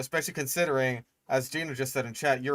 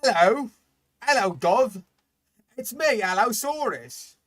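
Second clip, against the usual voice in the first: high, loud mock Cockney greeting; 9 semitones higher, 5 dB louder than usual. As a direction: ham up a silly Cockney voice, much higher and louder. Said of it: "is that what he's saying?".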